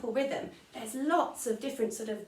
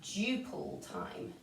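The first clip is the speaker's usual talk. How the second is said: slow spelled-out term; 3 semitones higher, 4 dB quieter, much slower than usual. Shown as a demonstration. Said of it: "you call it duple time".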